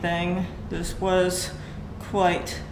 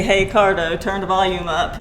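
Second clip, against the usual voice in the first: demo voice command; 4 dB louder than usual. Shown as a demonstration. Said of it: "You can say".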